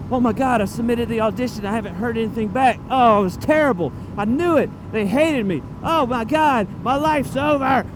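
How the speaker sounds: mock panicked spiral, building; paranoid panic. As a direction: act out an auditioner's mounting dread. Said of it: "you get paranoid".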